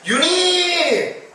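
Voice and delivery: imitated children's high, long-held call; high drawn-out hail, imitating kids. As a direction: call the name loudly from afar, stretching it out. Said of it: "아이들이 그 이름을 부르는 거예요".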